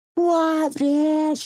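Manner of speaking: very high, shrill shout carried over distance. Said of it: "echoing across the mountain".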